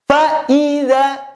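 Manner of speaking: high, slow chanted IDZA with a faulty i. Shown as a demonstration. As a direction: recite FA IDZA as the wrong example. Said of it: "i-nya nggak boleh".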